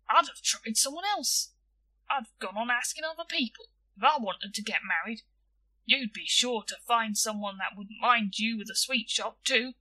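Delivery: lightly voiced boy giving advice; lively, lightly acted know-all boy; opinionated schoolboy William, judicial. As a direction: weigh it up like a small judge.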